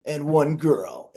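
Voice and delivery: a hint of a trailer announcer, slow; lightly voiced trailer narrator; movie trailer voice.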